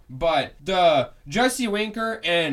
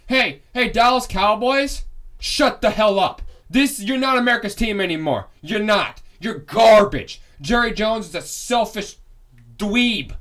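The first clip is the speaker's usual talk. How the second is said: loud, high angry rant at the Cowboys; fired-up fan telling off a rival team; going off; 4 semitones higher, 5 dB louder than usual. Real, not acted. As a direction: yell at the Dallas Cowboys, fed up. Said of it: "I know I'm, I'm going off".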